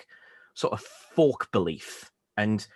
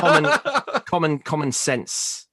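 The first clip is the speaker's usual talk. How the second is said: excited emphasis; 7 semitones higher, 5 dB louder, slower than usual. Real, not acted. Emphatic repetition, laughing banter.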